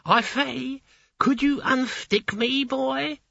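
high shouting gargoyle call; shouting after him. A narrator's reading. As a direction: call out to someone leaving. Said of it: "shouted the knocker".

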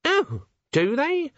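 high, slow, pointed reply; a sharp edge under politeness; edgy. A narrator's reading. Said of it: "the edge in Littlebottom's voice".

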